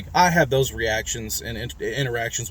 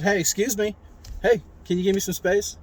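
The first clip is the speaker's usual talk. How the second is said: polite request; 7 semitones higher than usual. Retold or imitated. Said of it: "I just said".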